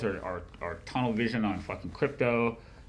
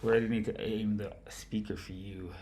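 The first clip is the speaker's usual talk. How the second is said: whispering; 6 dB quieter than usual. Real, not acted. Off-mic question to co-host.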